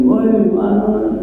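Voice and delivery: high, slow call across a distance; high calling shout. Retold or imitated. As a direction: holler out like calling to someone far away. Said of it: "suaranya tinggi".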